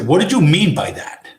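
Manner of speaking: Tommy's threat. Retold or imitated. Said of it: "and say".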